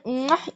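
a quick soft air kiss; kiss sound. Shown as a demonstration. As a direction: blow a kiss to the viewers. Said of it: "Öpücüğü yaptım". (öpücük sesi)

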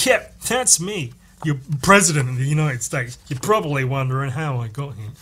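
lightly hammed-up film narrator; movie voice-over. President narrating the movie's opening flashback, lightly mocked voice-over. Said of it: "like, if it was a movie".

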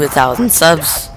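real momentary voice crack. Real, not acted. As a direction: voice cracks briefly upward. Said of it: "Ooh, voice crack".

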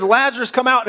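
high, loud commanding cry. Acted. Jesus calls the dead man out, crying loudly. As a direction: cry out the summons at preaching pitch. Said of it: "cries out in a loud voice".

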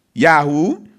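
ordinary delivery

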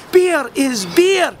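P=A; stress on beer. Acted. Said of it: "And then it struck me".

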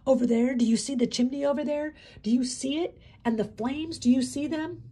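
loud, high, harsh demand; harsher tone. A narrator's reading. Inmate forcing prisoners to see the chimney, harsh shouting. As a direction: force them to look at the chimney. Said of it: "His tone became even harsher".

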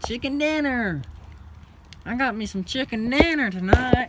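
high loud excited shout. Real, not acted. Exclaiming over kittens.

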